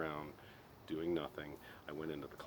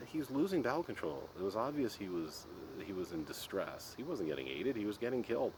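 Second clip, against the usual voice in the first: insistent retort; 5 semitones higher than usual. Retold or imitated. Pressing his point to dad.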